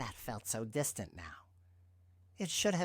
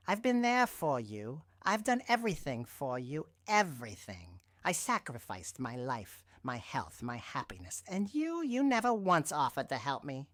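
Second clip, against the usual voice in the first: louder and higher, building; voice rising; 3 semitones higher, 5 dB louder than usual. Acted. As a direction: let the voice climb in anger. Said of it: "my voice rising".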